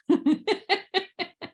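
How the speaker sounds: high, light laugh at herself; amused laugh. Real, not acted. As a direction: laugh off the awkward word. Laughs at own topic.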